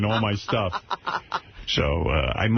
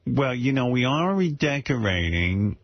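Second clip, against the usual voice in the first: imitating his mother; 2 semitones higher, slower than usual. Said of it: "she goes".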